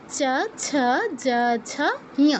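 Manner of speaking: চ ছ জ ঝ ঞ as separate syllables; palatal letter drill. Shown as a demonstration. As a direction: recite চ ছ জ ঝ ঞ evenly, tongue at palate. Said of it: "আমি আবার করে দিচ্ছি". (চ বর্গ, আলাদা আলাদা উচ্চারণ)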